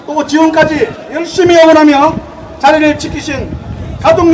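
earnest ceremonial address to alumni; formal closing speech. Acted. Closing speech at alumni sports day.

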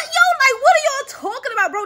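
what are you even saying; incredulous. Real, not acted. Vlogger reacting in disbelief to absurd comments.

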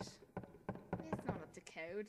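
slow, botched Australian accent; Australian-sounding accent. Shown as a demonstration. Showing a friend a Jewish accent, comes out Australian. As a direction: try Jewish, land slowly in Australian. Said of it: "It's Australian".

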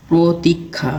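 "প্রতীক্ষা" broken into pro-tik-kha; correct pronunciation. Shown as a demonstration. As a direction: sound out "প্রতীক্ষা" syllable by syllable. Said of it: "এটির উচ্চারণ হবে".

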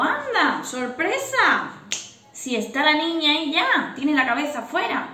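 surprised midwife. Retold or imitated.

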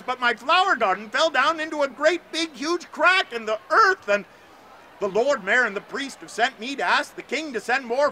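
put-on a boy's grief building to a near cry; distressed boy. Astor pours out the disaster to the bird, building to distress.

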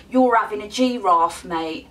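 hammed-up Cockney banter; badly faked London Cockney, trailing off on the last word; bad Cockney accent. Shown as a demonstration. Mates teasing each other in slang, badly faked Cockney accent. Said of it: "That's really bad accent".

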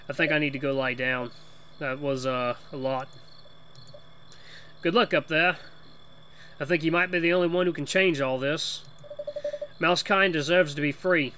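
lightly put-on Boston accent; a loose, half-sure Boston accent; attempted Boston accent. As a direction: have a go at talking like a Bostonian. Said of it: "trying to do a Boston accent".

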